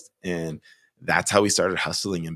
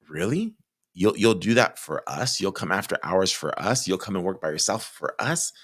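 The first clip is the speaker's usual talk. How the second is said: amazed disbelief; 2 semitones higher than usual. Retold or imitated. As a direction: imitate customers who can't believe the offer. Customers amazed by after-hours offer.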